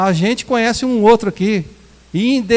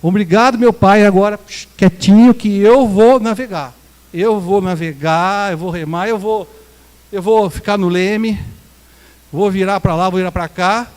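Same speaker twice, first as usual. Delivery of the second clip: mock dismissive self-reliance. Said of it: "e fala assim pra ele".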